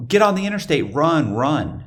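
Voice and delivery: high, imitated frantic urging; urgent girlfriend. Girlfriend urging him to flee.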